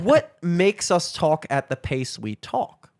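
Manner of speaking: slow, drawn-out question; slow talking. Shown as a demonstration. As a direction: stretch it out slowly. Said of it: "the pace at which we're talking".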